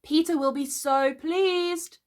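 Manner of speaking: high, slow, drawn-out fairy cry; screamed urging. A narrator's reading. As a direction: goad him on in a high voice. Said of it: "she screamed".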